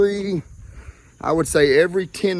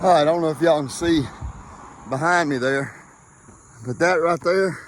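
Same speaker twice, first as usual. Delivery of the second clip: panting after a steep hill; puffing, winded from climbing; out of breath. Real, not acted. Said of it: "I just wanted to see y'all to see me breathing hard".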